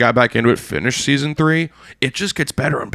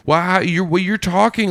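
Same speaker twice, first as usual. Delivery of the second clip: higher-pitched imitation of a drunk girl; mock tipsy amazement, stumbling over the words; 5 semitones higher than usual. Drunk woman marvels at how a stranger talks, mock tipsy. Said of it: "she's super drunk. She's fucked up".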